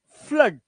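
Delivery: फ्लड with an 'uh' vowel, no 'oo'; 'aa' sound exception. Shown as a demonstration. Teacher giving students an exception, 'aa' sound. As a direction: say फ्लड to rhyme with mud. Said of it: "आ की आवाज".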